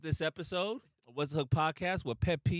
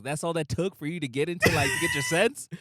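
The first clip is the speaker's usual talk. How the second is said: mock exasperated yell; 6 dB louder than usual. Friend answering a drunk who spilled a drink, mock exasperated shout. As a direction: yell it in comic disbelief. Acted retort to calmed-down drunk.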